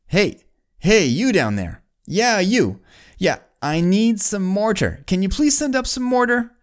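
high-pitched calling down from a height; mock yell down. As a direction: holler to a worker far below, playfully acted. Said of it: "he yells down to someone down on the ground".

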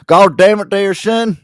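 high, loud laughing country holler; old farmer. Pretend.

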